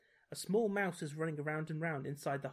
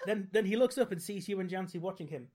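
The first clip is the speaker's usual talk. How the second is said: real giggles breaking into the reading; laughing while talking; 4 semitones higher, 4 dB louder than usual. Real, not acted. Reader tickled by own mouse joke, laughing. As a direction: try to read on through laughter.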